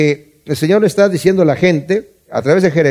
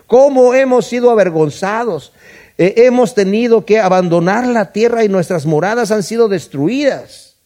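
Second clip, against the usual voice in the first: keen like a hired mourner; a lament for a lost homeland; mourner's lament; 5 semitones higher than usual. Shown as a demonstration. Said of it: "Eso es lo que las plañideras van a estar llorando".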